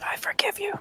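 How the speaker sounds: soft whisper pitched well up. Playing a character who forgives another character: whispering as Corvus. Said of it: "Corvus whispers".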